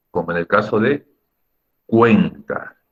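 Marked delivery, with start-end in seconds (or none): 1.8-2.8 CUEN-ta, leaning on the E; stress on the E. Shown as a demonstration. Teacher demonstrates the stronger vowel, stressing E in "cuenta". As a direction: punch the E in "cuenta". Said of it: "la fuerte la pronuncias un poco más fuerte".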